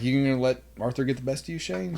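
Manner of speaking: fast teasing goad; needling. Retold or imitated. Goading Shane in the office, fast teasing. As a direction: egg him on with a grin. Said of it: "I was like".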